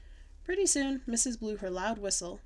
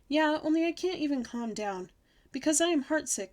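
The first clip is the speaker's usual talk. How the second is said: put-on high-pitched, louder child complaint; upset protest; 6 semitones higher, 5 dB louder than usual. A narrator's reading. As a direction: insist you are too upset to settle. Upset child refuses to calm down.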